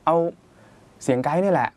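mock client delighted with the guide voice; excited client. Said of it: "ลูกค้าก็บอกว่า".

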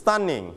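Stunning clearly for repeating; teacher says Stunning to be echoed; model word. Shown as a demonstration. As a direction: model Stunning for students to copy. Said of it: "Repeat after me".

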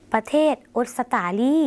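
ออสตาลี said "ot-sa-ta-li"; Lao pronunciation. Shown as a demonstration. Teacher modelling a Lao country name for viewers, Lao pronunciation. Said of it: "หมายถึง".

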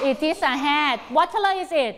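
drawn out word by word; very slow model answer and question. Shown as a demonstration. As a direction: spell out the sentence slowly. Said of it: "ต้องตอบเป็นประโยคเลยลูก".

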